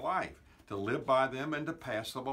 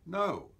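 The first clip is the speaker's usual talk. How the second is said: "No" said with a lifted, higher pitch; a sharp, questioning "No"; quick higher "No"; rising no; 5 semitones higher than usual. Shown as a demonstration. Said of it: "Say it in all the different ways you want to say it".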